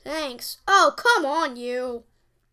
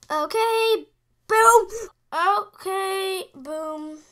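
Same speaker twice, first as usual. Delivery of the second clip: excited boom; 4 semitones higher, much slower than usual. Real, not acted. Celebrating a play.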